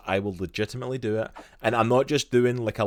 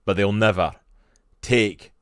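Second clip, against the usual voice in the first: put-on loud rousing battle speech in Scottish accent, building to a defiant close; rally the troops, stretching the key phrases; William Wallace; 6 dB louder than usual. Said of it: "This is the famous speech right before the Battle".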